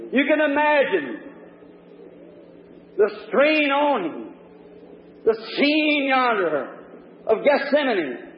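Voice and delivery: impassioned preaching. Real, not acted. Preacher picturing the agonies of Calvary to the congregation, impassioned.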